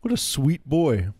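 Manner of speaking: high, slow mock-doting praise; sarcastic cooing. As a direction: play along, gushing over the awful child.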